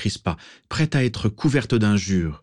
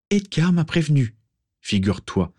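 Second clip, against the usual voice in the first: dry, sharp reply; curt retort; 8 semitones higher than usual. A narrator's reading. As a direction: snap it back, curt. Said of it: "répliqua-t-elle sèchement".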